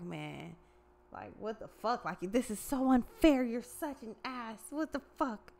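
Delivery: put-on whiny kid tantrum. Sore-loser kid tantrum quote.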